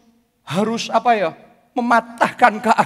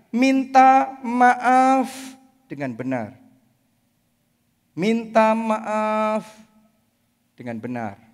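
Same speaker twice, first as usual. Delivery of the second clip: slow emphasis; much slower than usual. Real, not acted. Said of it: "stretched repeated teaching phrase".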